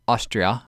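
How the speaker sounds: "Austria" for Australia, with the L left out; dropped L. Shown as a demonstration. Podcast host showing Australians' missing consonants, dropped L. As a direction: swallow the L of Australia, leaving "Austria".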